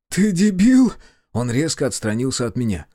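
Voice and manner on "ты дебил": higher, louder furious retort; angry outburst. A narrator's reading. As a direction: snap at him in anger. Brother lashes out angrily.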